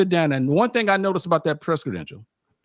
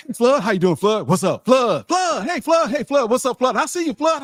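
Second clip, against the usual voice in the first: calling out; 10 semitones higher, 4 dB louder than usual. Retold or imitated. Crowd greeting Flood repeatedly.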